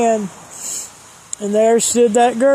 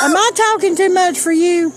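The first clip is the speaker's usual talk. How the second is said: high aside; 8 semitones higher than usual. Acted.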